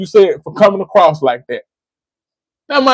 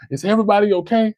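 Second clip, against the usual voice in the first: softer, quick, caring check on everyone; mildly acted concern after the crash; genuine compassion; 7 dB quieter, faster than usual. Driver who crashed checks on the people, softer and caring. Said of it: "And I show genuine compassion".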